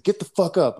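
high, loud mock drill-sergeant bark; retold sergeant order. Sergeant ordering a crawling soldier to stand, mock bark. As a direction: snap it out like a sergeant kicking you up. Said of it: "He's like".

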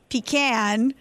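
"pecan" said as PEE-can; trying out his PEE-can on "pecan"; imitated pronunciation of pecan. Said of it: "I forget how you said it".

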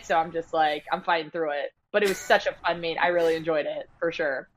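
hoarse, raspy from losing her voice. Real, not acted. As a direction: talk through a raspy, worn voice. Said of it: "Like, it's kinda raspy today".

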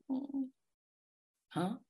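puzzled inner reaction. Retold or imitated. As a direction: react like an audience member lost already.

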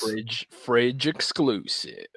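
slow, drawn-out hype announcer. Pretend. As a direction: stretch it out like a fight-game caller. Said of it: "our announcer voice".

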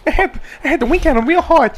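high-pitched boxer impression; Mike Tyson narrating. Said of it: "does he narrate it?".

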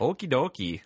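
lightly mimicked Fargo accent; folksy Minnesota-style lilt; Marge Gunderson. Imitating a girl from northern Michigan, light Fargo accent. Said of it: "she sounded like Marge Gunderson".

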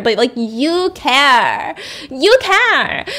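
mock adoring nurses; gushing nurses. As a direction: swoon over him, rising on the second you care. Nurses gushing over him.

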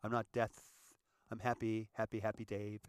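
a hint of a sheepish happy-go-lucky guy; mock protest. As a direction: protest his innocence with a grin. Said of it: "I'm like".

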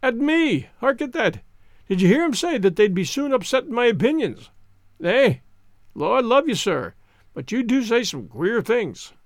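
high, amused, through laughter; laughing. Acted. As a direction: speak while still laughing. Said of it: "laughed until his sides ached".

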